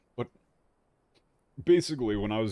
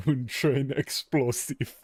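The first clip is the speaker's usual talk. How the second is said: slow, hammed-up French accent, a little higher; a French translator drawling between cigarette puffs; lazy mock French accent, slowed right down; 4 semitones higher, slower than usual. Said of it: "towards a French accent".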